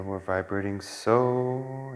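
slow, drawn-out cue with the word so held long; slow meditation cue. Shown as a demonstration. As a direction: guide the breath, stretching out so. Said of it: "As we inhale".

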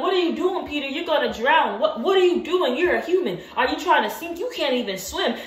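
high, alarmed disbelief at Peter; mock alarmed onlooker; incredulous bystander. Bystanders doubting Peter on water.

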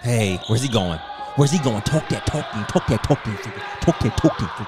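loud hype chant. Real, not acted. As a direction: cheer the player on loudly. Hyping up the player.

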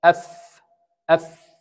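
isolated أف, lip and teeth; fa sound demo. Shown as a demonstration. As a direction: show the fa from the lip. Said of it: "الفاء".

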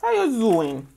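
catchphrase greeting with a falling tune; lightly mimicked catchphrase; Miss Wendy. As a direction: imitate a signature hello, sliding down in pitch. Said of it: "like Miss Wendy says".

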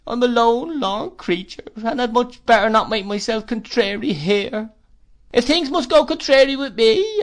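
high, loud plaintive widow's whine; Missus Gummidge. Acted. Mrs Gummidge pities herself at dinner, high whine. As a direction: whimper it like a self-pitying old widow.

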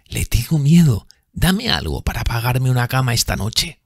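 lightly voiced frightened woman; frightened plea. A narrator's reading. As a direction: plead for money, scared.

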